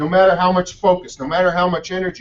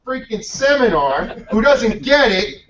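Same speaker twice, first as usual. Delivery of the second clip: amused teasing; 6 semitones higher than usual. Retold or imitated. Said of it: "He says".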